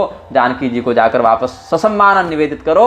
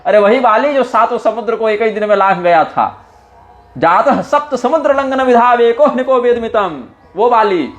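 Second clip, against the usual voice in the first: mocking Angad; 6 semitones higher than usual. Angad mocking Ravana's memory.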